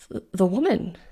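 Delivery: shaky, halting stammer. A narrator's reading. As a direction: stumble over the first word. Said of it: "Fiona stammered".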